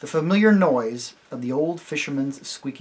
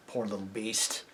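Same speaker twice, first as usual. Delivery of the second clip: gentler tone; 4 semitones lower, 10 dB quieter than usual. A narrator's reading. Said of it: "said the horse in a gentler tone".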